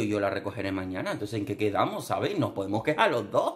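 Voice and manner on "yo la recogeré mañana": lazy retort. Retold or imitated. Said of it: "Y digo".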